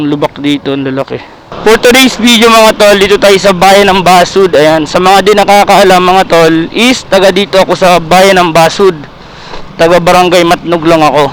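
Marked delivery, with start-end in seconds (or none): 1.6-11.3 vlogger intro. Acted. Vlog intro to viewers.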